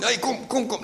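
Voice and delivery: high-pitched mock urging; crowd urging. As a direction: play a crowd hustling someone along. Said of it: "Die zei van".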